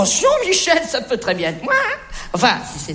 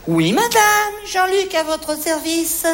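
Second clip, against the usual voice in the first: salesman's lilting welcome; customer-service greeting; 2 semitones higher, slower than usual. Acted. Salesman Jean-Luc welcoming a customer, eager service. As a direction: greet the customer with a stretched-out flourish.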